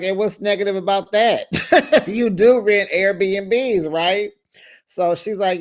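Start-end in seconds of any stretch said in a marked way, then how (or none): 0.0-4.3 laughing as Andy. Retold or imitated. Andy teasing Meredith about Airbnbs, laughing. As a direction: ask it with a laugh breaking in. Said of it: "Andy was like".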